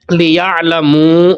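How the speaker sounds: لیعلمو with the long mu held very slowly; held madd on لیعلمو; slow madd demo. Shown as a demonstration. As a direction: stretch the final مو in لیعلمو. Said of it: "اس کو ہم نے اونچا کر کے پڑھنا ہے".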